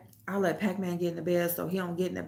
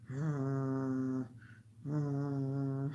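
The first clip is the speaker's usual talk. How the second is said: imitated dog growl; 6 semitones lower, 9 dB quieter than usual. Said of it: "doing this little growl under his breath".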